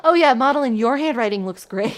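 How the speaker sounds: mock self-satisfied praise; smug voice. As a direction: play the vain narcissist. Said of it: "makes me sound like such a narcissist".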